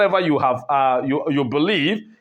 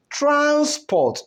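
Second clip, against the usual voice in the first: transport with TRANS stretched high, PORT dropping; stress on first syllable; 9 semitones higher than usual. Shown as a demonstration. Teacher showing the noun, first-syllable stress on transport. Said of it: "when the stress is on the first".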